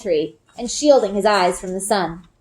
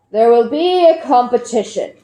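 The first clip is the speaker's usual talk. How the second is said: slowly; 2 semitones higher, 4 dB louder than usual. A narrator's reading. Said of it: "says slowly".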